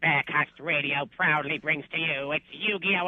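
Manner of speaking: booming ringmaster introduction. Acted. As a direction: announce it like a circus ringmaster. Announcing tag team champions.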